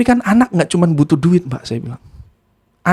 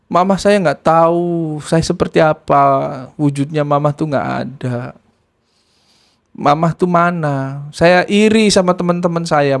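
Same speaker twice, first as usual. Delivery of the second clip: understated mournful complaint; retold sobbing. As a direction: imitate a child confiding through tears. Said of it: "sambil nangis sesenggukan gitu".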